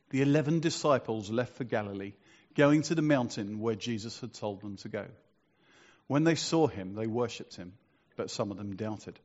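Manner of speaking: measured Bible reading to a congregation; scripture reading. A narrator's reading. Preacher reads the five verses to the congregation, scripture reading. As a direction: read the passage out solemnly, phrase by phrase.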